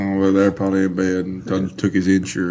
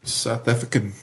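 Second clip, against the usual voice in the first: South African accent; 3 semitones higher, 5 dB quieter than usual. Shown as a demonstration. Friend repeating it on request, attempted South African accent. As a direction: imitate a South African saying it. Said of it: "say it again".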